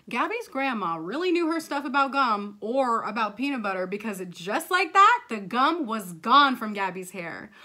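loud, bouncy storyteller; animated children's reading; story narration. Acted. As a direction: tell the magic fix with relish.

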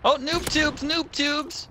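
squeaky cartoon repeat; mock high-pitched cheer; silly high voice.

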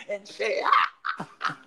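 preacher's cry tailing into voiceless breath. Shown as a demonstration. Host mimicking the bishop's sermon, preacher voice. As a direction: end the exhortation on a breathy "Ah". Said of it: "That's the bishop".

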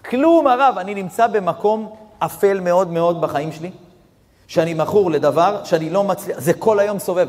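loud, high anguished plea; desperate cry. Retold or imitated. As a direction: cry out his despair, pushing the words hard. Addict's despairing plea retold. (זעקה נואשת ורמה)

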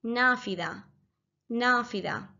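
نافذة spoken clearly, nafitha; standard word. Shown as a demonstration. Teacher teaching standard Arabic word for window. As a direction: model نافذة carefully. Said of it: "But in standard Arabic".

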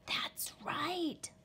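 secret whisper into the phone. A narrator's reading. Little Wolf on the phone, sly whisper. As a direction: whisper so parents won't hear. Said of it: "Little Wolf whispered".

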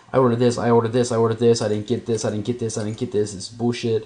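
rapid, repetitive mock complaining; hurried imitation of a worked-up man; mild retold freak-out. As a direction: rattle it off like an irritated customer, lightly acted. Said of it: "He was pissed off about his order".

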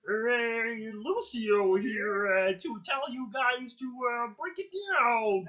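Lucio voice. Retold or imitated. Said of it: "a mix of, like, Kermit the Frog and Terrible".

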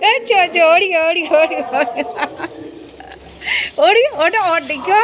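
high-pitched repeated go-go calls; excited urging. Real, not acted. Owner urging the wet dog to run, excited high calls. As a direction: spur the dog on, pitch jumping up.

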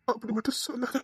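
soft crying plea; quiet tearful begging. Acted. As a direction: beg her through tears. Pleading through tears.

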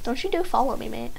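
playful put-on Australian accent; Aussie accent. Player warning opponent not to follow, Aussie accent. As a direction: warn them off in a mock Aussie accent. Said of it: "I'll pull out my Aussie accent".

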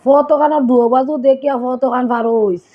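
a slightly slowed Sylheti warning; Sylheti dialect. Shown as a demonstration. Showing viewers the Sylheti road-crossing warning, slightly slow Sylheti. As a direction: say it plainly in Sylheti, a bit slow. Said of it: "Sylheti বাংলায় আমরা কই".

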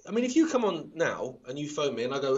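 ordinary talk, nothing marked

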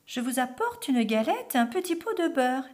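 high-voiced little girl. A narrator's reading. Red Riding Hood announcing herself at the door, high girlish voice. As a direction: pipe up high as a small girl. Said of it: "dit le petit chaperon rouge".

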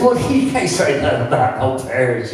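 high, amused protest retelling dad; tickled disbelief. Retold or imitated. Dad scoffing at John's song idea, tickled disbelief. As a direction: retell a tickled, incredulous comeback. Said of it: "my dad got tickled at him".

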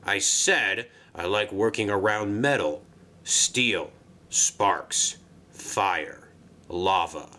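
low, deliberate list with gaps between items; grumpy repetition. Acted. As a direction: spell it out for a slow listener. Grumpy engine repeats himself.

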